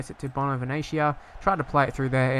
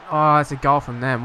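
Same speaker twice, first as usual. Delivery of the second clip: dismayed outburst; 8 dB louder than usual. Real, not acted. Conceding a goal live.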